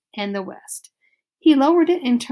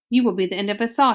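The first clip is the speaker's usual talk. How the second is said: quick, mildly raised shout; shouting father; much faster than usual. Acted. Father mouse blaming his wife, fast mild shout. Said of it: "he shouted".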